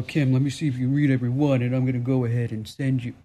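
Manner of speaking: a lightly voiced smug know-it-all; smart aleck listener. Smart aleck listener trying to catch Kim out, mocking. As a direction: play the cheeky listener testing her. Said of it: "that smart aleck guy that goes".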